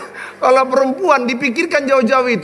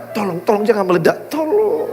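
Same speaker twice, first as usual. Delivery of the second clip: mock begging. Husband begs wife not to explode.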